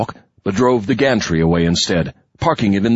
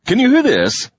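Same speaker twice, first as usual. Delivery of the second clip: sudden raised taunting voice; spring it on him loudly; sharp loud taunt; 3 dB louder than usual. A narrator's reading. Sudden attack on guard.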